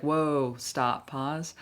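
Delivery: acted firm halt, loud on "whoa"; firm interruption. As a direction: cut in and call a stop. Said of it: "I do talk like that".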